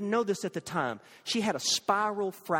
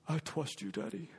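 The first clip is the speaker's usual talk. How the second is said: put-on trusting little child; 9 dB quieter than usual. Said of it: "and he said".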